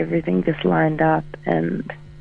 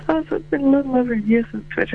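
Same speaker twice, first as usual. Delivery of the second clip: lightly imitating the host, quick and higher; quoting the host; 6 semitones higher, faster than usual. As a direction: toss off the host's words fast. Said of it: "you said".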